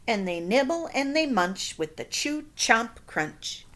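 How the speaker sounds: put-on lively read-aloud to children; storybook reading. A narrator's reading. Teacher reading a picture book to her class. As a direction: read it like story time for kids.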